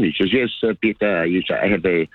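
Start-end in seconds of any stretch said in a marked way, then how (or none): 0.3-1.2 imitated French accent. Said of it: "a French guy come over". 1.6-2.1 lightly mimicked French player; imitated French accent. Caller quoting a French footballer about his family, imitated French accent. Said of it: "a French guy come over".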